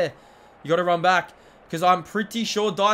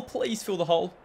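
softer, begging under the breath; soft plea; 5 dB quieter than usual. Real, not acted. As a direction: plead quietly after yelling. Pleading after the yell.

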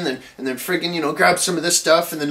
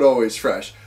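lower, disbelieving repeat of "always fresh?"; scornful echo; 6 semitones lower than usual. Retold or imitated. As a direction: drop the voice and scoff at "always fresh?". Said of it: "And, and the big sign".

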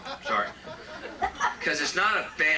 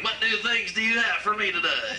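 Satan impression; 3 semitones higher than usual. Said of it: "It's my Satan impression".

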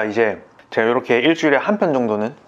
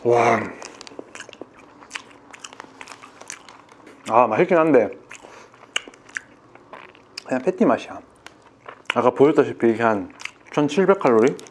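chewing while talking; speaking between bites; mouth full of burger. Real, not acted. Seen 0: Bites burger at -2, chews and talks holding it throughout.

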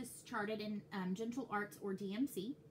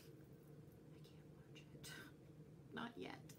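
very slow, hushed whisper; mock-distraught whisper; 6 semitones lower, 15 dB quieter, much slower than usual. Distraught fan facing the last season, dramatic whisper. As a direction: whisper it in drawn-out, acted dread.

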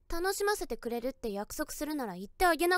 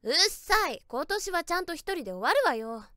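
huffy snap; 4 dB louder than usual. Acted. Snapping back at boyfriend.

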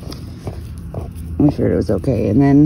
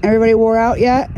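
high fast pet talk; 7 semitones higher, faster than usual. Real, not acted.

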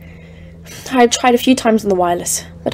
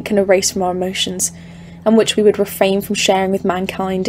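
ominous story narration; 3 dB quieter than usual. A narrator's reading. Narrator recounting the mountains.

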